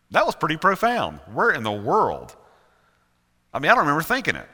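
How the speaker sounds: loud, retold astonishment; amazed at oneself. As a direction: act baffled by your own profound words. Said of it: "I've gone".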